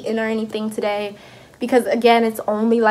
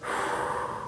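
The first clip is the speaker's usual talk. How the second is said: long, hushed breath through a contraction; reenacted wordless puff of pain; pained exhale; 13 dB quieter than usual. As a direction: breathe out slowly, acting out pain. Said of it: "my whole face is just like".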